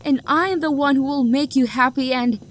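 a rejected lover's bitter outburst; hurt anger. Acted. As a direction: build the jealous grievance. Jilted lover's rising outburst.

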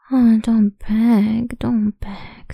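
mock pity. Voiced mocking over pleading.

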